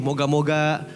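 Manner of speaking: low-pitched imitation of a hopeful gambler; mock wishful hoping. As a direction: imitate someone vaguely wishing, pitched well down. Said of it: "ngomongnya begitu".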